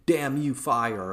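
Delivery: loud, high, drawn-out command; acted battlefield shout; mock scream. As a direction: yell it slowly as an enraged soldier. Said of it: "he screams".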